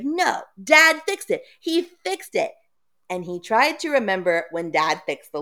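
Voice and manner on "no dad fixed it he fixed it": much higher, frantic insisting; panicked denial. Retold or imitated. Boy insisting to sister the lock works, panicked. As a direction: squeak it out in panic. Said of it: "he's like".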